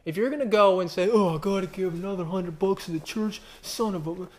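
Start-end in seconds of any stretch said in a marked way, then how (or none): 1.1-4.3 mock grudging giver. Mocking grudging church giver.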